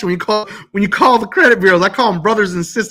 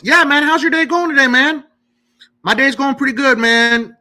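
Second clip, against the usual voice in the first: acted friendly chat, pitched up; super nice; 5 semitones higher than usual. Caller asking the bureau agent about his day, super nice. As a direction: keep it chummy and higher than usual. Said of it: "I always am super nice".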